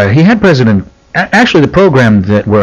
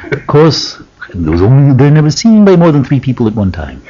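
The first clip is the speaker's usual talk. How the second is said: mannered, higher-pitched imitation; Carl Sagan; 3 semitones higher than usual. Imitating the astronomer dismissing sightings, mannered. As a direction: draw it out like Percy Dovetonsils. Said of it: "sounds a lot like Percy Dovetonsils".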